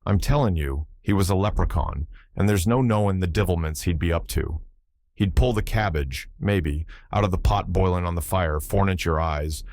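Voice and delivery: put-on old Irish seaman, lively brogue; Irish sailor accent. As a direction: tell it in a thick Irish brogue. Button tells fairy tale.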